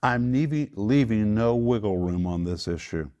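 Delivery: forceful, no-nonsense order; emphatic. Acted. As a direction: lay down the law firmly. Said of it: "That's how emphatic it is in the Greek".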